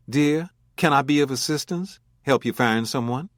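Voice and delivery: put-on an old New Orleans lady, soft almost Brooklyn lilt; kindly elderly woman offering help, soft almost Brooklyn accent. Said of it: "In that soft, almost Brooklyn accent".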